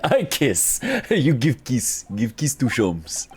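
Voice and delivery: slow, laughing broken English; goofy childish teasing; silly playful voice. Acted. Iris-like silly broken speech.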